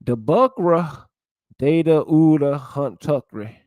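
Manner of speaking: Gullah Geechee creole sentences, lightly voiced; reading Gullah examples. Shown as a demonstration. Vlogger reads Gullah grammar examples to viewers, lightly accented. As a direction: sound out the Gullah verb forms, a hint of Gullah accent. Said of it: "the way they talk".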